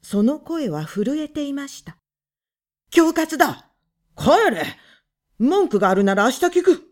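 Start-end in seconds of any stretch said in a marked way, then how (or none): 2.9-6.8 loud and fast; blustering shout. A narrator's reading. Husband driving the visitors off, loud bluster.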